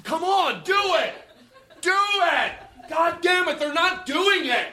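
hammed-up high-pitched outrage, laughing; mock frantic yelling. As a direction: rage half in jest at the friends who won't play. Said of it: "I was like".

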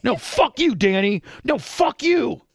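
high-pitched mock shouting back and forth; volley it as both sides of a row; retold screaming. Host re-enacting the friends' last exchange, mock screaming. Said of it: "screaming at each other".

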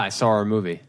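"saw our" run together as "sawr a"; added R. Shown as a demonstration. Showing the Rhode Island accent, "saw our" as "sawr a". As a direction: link "saw our" with an intrusive R. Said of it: "We add R's to words".

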